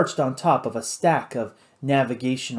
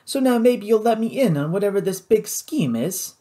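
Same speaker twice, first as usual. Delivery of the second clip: higher-pitched, pressing Cajun pirate; sceptical pirate boss; 5 semitones higher than usual. Acted. Louis demanding to be let in on the scheme, sceptical. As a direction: press him for the truth.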